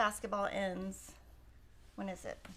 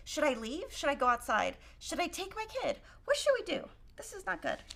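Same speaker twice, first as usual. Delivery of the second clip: higher-pitched, anxious questions; retold worry; 5 semitones higher than usual. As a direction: replay the helpless worry rising in pitch. Own retold worry at game.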